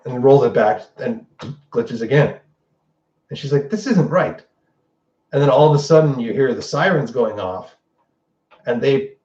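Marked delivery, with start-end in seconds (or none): 3.7-4.4 light, higher puzzled voice; lightly voiced baffled viewer; puzzled Darcy. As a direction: voice her confusion a notch up. Darcy puzzled by glitching broadcast.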